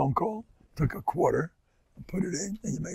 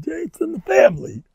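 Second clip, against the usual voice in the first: high mock voice; 6 dB louder than usual. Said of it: "She told the brother".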